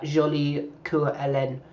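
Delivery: Jolie Coeur Hélène with a light French accent, Coeur as kʰuɹ; a lighter French lilt on Jolie Coeur Hélène; a touch of French accent on Jolie Coeur Hélène. Shown as a demonstration. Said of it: "with that French accent".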